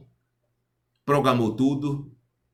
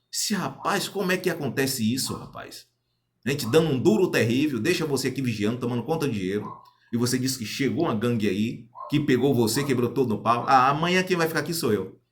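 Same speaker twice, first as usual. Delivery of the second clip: raised voice, rising indignation; angry scolding; 3 semitones higher than usual. Retold or imitated. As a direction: tell him off for losing the money. Scolding partner over lost money.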